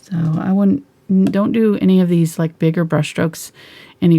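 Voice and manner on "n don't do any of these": normal talking voice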